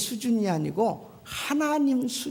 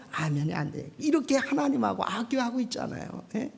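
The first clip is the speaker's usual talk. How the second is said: ordinary talk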